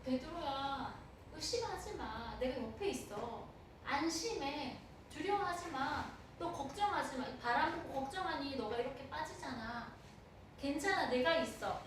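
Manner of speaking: calm a frightened friend; gentle reassurance. Acted. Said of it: "책망의 소리가 아니라".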